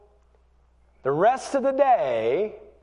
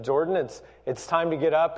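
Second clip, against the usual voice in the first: very calm; 2 semitones lower than usual. Retold or imitated. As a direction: keep it calm and even while waking a teenager. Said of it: "kept a voice very calm".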